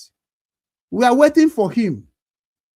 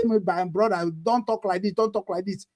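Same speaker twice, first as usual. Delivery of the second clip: mock pleading; 5 dB quieter than usual. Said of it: "people are going to come on social media and say".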